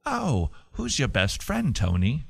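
put-on British teacher, quizzing a pupil; British accent. Teacher asking who Tony's best friend is, British accent. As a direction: ask sweetly in mock British. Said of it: "this is my British accent again".

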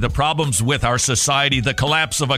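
forceful, driving radio appeal; impassioned ad read. Acted. Host urging listeners to join the war for life, impassioned ad read. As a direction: push the cause hard like a radio spot. Recorded sponsor read over music.

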